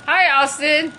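lifted, sing-out greeting; greeting call. Real, not acted. Greeting a player in passing.

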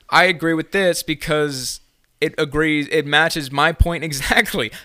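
reciting a canned reply in a mock drone; mock school essay voice. To an online class, mock canned agreement. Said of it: "I'm like".

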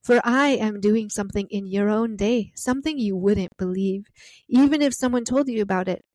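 reading the Lord's words with solemn, unhurried gravity; scripture reading. Acted. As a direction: let each image land, slowing near the end. Reads the Lord's reply aloud.

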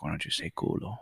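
very soft, low conspiratorial whisper. Retold or imitated. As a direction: secretly egg a little brother on. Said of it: "but I would whisper to him".

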